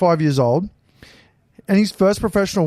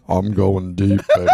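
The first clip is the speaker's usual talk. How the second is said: quoted fighter; 10 semitones lower than usual. Retold or imitated. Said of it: "These are all quotes".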